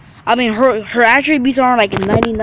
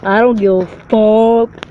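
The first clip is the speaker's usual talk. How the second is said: dismissive; 4 dB louder, slower than usual. Retold or imitated. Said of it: "And I'm just like".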